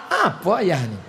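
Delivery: high laughing student complaint; mock grown child laughing; laughing protest. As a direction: whine it with a laugh.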